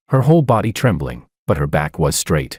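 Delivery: plain reading voice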